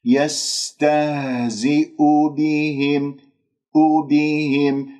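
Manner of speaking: slow recited يستهزئ بهم with lips rounded on u; rounded damma. Shown as a demonstration. Teacher models lip rounding for students, slow careful recitation. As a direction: stretch يستهزئ, full u, clear i in بهم. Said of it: "نضم الشفاه في المضموم".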